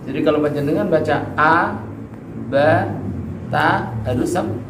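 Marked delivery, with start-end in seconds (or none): 1.4-3.9 "a, ba, ta" with the mouth opened wide; fully open mouth. Shown as a demonstration. Teacher models fathah for students, mouth fully open. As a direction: open fully on each vowel of "a, ba, ta". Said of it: "Mulutnya dibuka dengan sempurna".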